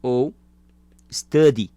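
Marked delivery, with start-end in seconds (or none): 1.1-1.7 "study" with a full t sound, stressed and loud; clear t study. Shown as a demonstration. Teacher shows students the second way, clear t. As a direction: say "study" with a crisp clean t, "stâdi", a bit louder. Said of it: "Eu posso tanto falar study ou study".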